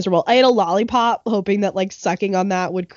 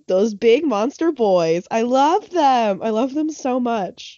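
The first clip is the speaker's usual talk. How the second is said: gushing excitement; 3 semitones higher, slower than usual. Real, not acted. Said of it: "I am so excited".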